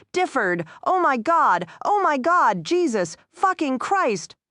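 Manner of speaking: a hoarse, high scream of horror; hoarse cry. A narrator's reading. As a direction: cry out in horror at a fallen man. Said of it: "The sound man's hoarse cry".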